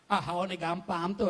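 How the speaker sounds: a teasing, playful jab; joking. Shown as a demonstration. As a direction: say it as a friendly joke. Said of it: "tu kita bergurau pula".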